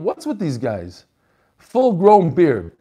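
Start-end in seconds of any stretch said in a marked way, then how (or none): 1.6-2.7 slow, drawn-out reading of the phrase. Real, not acted. Reading a viewer's note aloud, slow and teasing. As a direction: stretch Full grown beard out for a laugh. Rereads message line, drawn out.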